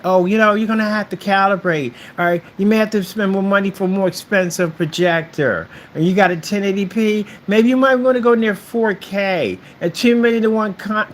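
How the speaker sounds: high-pitched mock sales pitch; sing-song, hammed-up upsell; mocking salesman. Mocking what sellers tell customers.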